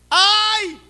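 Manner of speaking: a sudden high, loud wail of "Ai!"; anguished cry. Acted. Preacher crying out as Isaiah in anguish. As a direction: cry out in holy dread.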